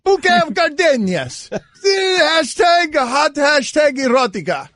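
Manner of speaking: fake Russian accent. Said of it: "That's fake Russian accent".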